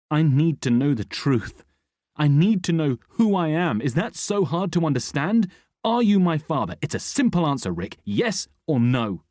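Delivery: loud, high insistent fury; raging demand. A narrator's reading. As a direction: pound out each demand. Son demands truth, rage.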